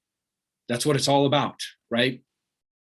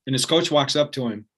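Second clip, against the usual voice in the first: usual speaking voice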